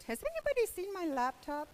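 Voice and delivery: high, fast, worried teacher; panicked teacher. Acted. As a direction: fret about the lost laptop.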